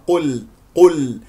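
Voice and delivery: slow قل with dark q and thin l; heavy Q, light L. Shown as a demonstration. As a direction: keep the ل of قل light after heavy ق. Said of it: "مرققة". (قل بقاف مفخمة ولام مرققة)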